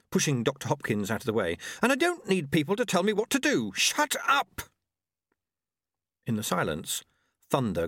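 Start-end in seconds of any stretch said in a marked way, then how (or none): 1.8-4.6 shouting. A narrator's reading. Jeremy shouting at Doctor Hopkins, raised voice. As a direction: yell him down. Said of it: "Jeremy shouted".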